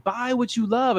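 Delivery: high-pitched sneaky sales line; sneaky salesmanship. Acted. Co-host showing the salesmanship way to say it, sneaky. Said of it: "kind of like a, a sneaky way".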